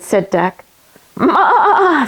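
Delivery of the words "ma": high bleating ma; goat's high bleat. Acted. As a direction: bleat like a goat. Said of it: "said Goat".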